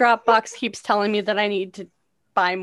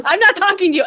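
exasperated; 10 semitones higher, 8 dB louder, faster than usual. Acted. Scolding her phone assistant.

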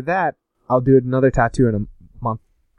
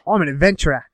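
lightly put-on Aussie accent, at normal pitch; mimicked Australian accent. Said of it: "Australian's like".

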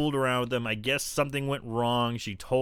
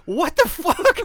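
much higher, scandalised mock outrage; outraged Blair; 8 dB louder, slower than usual. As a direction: play the offended mean girl. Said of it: "Blair's just like".

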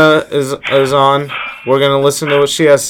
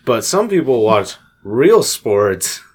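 "real" drawn out slow and heavy; stress on real; slower than usual. Real, not acted. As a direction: lean sarcastically on "real". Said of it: "air quotes sports".

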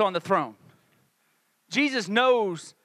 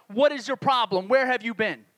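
mildly indignant challenge; understated aggressive questioning. Acted. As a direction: confront with a touch of indignation. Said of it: "it's more of an aggressive tone".

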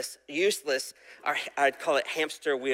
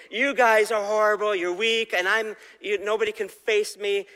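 mock taunting giant; 5 semitones higher than usual. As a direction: taunt like a bragging giant, lightly voiced. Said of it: "start taunting Israel and saying".

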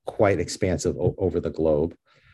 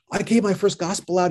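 excited Staten Island guy, pitched up; a thrilled New Yorker from Staten Island; Staten Island accent; 11 semitones higher than usual. Retold or imitated. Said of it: "he had that heavy accent".

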